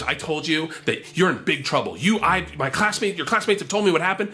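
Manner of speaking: mock an indignant chaperone; imitated teacher's scolding. Teacher telling him he's in trouble, imitated scolding.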